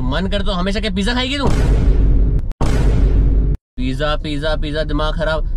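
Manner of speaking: worked-up yelling about money; shouted complaint. Real, not acted. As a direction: rant indignantly, pitch climbing with each question. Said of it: "ऐसे चिल्ला रहे हो".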